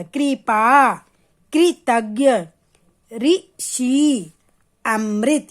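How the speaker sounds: "कृपा, कृतज्ञ, ऋषि, अमृत" slow, with a clear "ri" syllable; ri-sound demo. Shown as a demonstration. Teacher showing children the ri matra in "कृपा, कृतज्ञ, ऋषि, अमृत", drawn-out ri demo. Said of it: "री की मात्रा क्री हो जाएगा".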